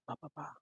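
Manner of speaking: soft popped pa sounds; soft lip popping. Shown as a demonstration. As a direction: tap out quiet pa pops. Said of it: "Like this".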